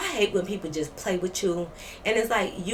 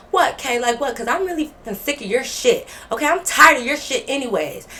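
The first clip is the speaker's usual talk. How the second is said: higher, louder, fed-up mimicry; imitated angry outburst; 4 semitones higher, 6 dB louder than usual. Roommate sick of storyteller's behavior, imitated heated outburst. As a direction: mimic the roommate firing back. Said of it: "She tried to match my energy".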